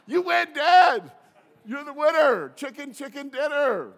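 high, loud cheering shout; hammed-up celebration, belted out like a game-show win; mock victory cheer. Celebrating children's answer to dad.

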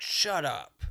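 mock-domineering outburst; dominatrix command. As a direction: cut them off sharply and loud. Acted dominatrix snapping at customer.

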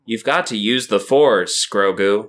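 slow, mildly patronizing Jedi mentor; condescending Luke. Retold or imitated. Agreeing that the character's voice sounds off, mildly condescending imitation. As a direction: lightly imitate an overly calm, condescending teacher. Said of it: "condescending in a way".

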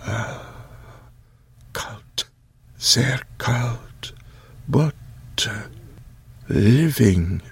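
put-on hushed old voice with German words; a lightly voiced old man touching a cold cheek; old man Occam.

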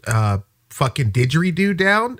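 lightly voiced timid complaint; haltingly ask, with awkward pauses; hesitant dorm RA. Dorm RA looking way up at a giant student, hesitant.

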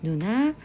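ヌナ as a Korean word, nu-na; Korean nuna. Shown as a demonstration. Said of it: "ヌナと呼びます".

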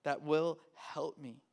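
high, wide-eyed wonder, slowing at the end; awed realization. Retold or imitated. Student realizing what they neglected, awed and excited. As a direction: voice a student suddenly realizing the gift. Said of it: "And we're like".

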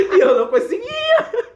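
high, slow, tearful laughter; cracking up so hard the words barely come out; real helpless laughter, almost crying; laughing. Real, not acted.

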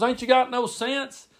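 high, slow exasperated rebuke; scolding uncle Brad. Retold or imitated. Uncle getting on to cousin, incredulous scolding. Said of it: "Brad would be getting on to him".

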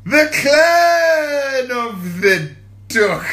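drawn-out, high, loud chant; slow loud shout. Shown as a demonstration. Shouting the quote so viewers guess it. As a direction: belt the line out slowly. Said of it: "tell me where that statement is from".

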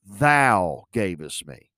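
"Thou" leaned on, slow; slow emphasis on "Thou" and "me"; stress on thou. Shown as a demonstration. Preacher stressing Adam's words to the listeners, slow emphatic. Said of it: "emphasize a word that he made".

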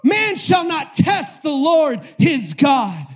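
loud, high, forceful preaching; full-force scriptural rebuke; hurling words in battle. Acted. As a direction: throw each phrase at the devil like a weapon. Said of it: "he threw words at the devil".

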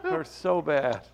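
slow words squeezed through laughter; laughing. Real, not acted. Cohost winded by a friend's breakup joke, laughing. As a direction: laugh while saying it hurts. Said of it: "He wants to laugh so bad".

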